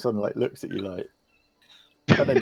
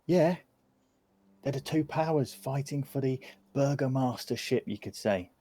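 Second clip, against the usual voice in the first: lightly voiced chatty child, higher pitch; inquisitive kid; 4 semitones higher than usual. Kid tells strangers about the big house, lightly voiced child. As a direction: lightly play a gossipy youngster.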